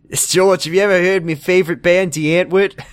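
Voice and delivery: eager fan showing off; mock eager. Retelling Jacob asking George, mock eager.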